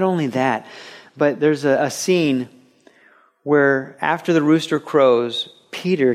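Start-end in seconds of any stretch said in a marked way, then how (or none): 3.4-5.5 whispered. Acted. Dramatic story moment.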